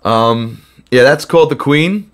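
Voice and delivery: hoarse voice cracking from a cold; under the weather, voice cracking slightly. Real, not acted. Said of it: "I apologize for my voice cracking".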